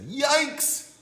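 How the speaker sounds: startled dad's high yelp; hammed-up fright; shocked yikes.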